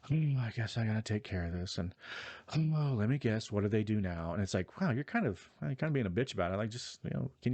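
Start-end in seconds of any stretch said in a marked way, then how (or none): 0.0-1.8 put-upon, breathy reluctant grumble; lightly mocking sigh of reluctance; mock gasping sigh. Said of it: "she's always gasping, like". 2.6-4.3 exasperated "oh" sliding into weary complaint; lightly mocked exasperation; mock gasping sigh. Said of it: "she's always gasping, like".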